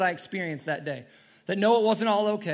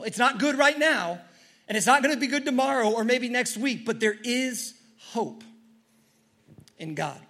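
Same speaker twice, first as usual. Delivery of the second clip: preaching build; 4 semitones higher than usual. Real, not acted.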